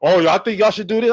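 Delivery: high, whiny mocking voice with a laugh; mock online arguer. Mimicking the online sports debaters in a high whiny voice.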